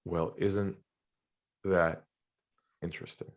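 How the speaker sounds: low, calm and centered, trailing to a hush; a centered, hushed question. Retold or imitated. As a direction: drop the voice and let it settle. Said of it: "I lowered my voice".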